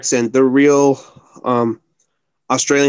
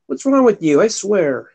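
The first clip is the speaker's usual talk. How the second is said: scolding a pet; 4 semitones higher than usual. Real, not acted.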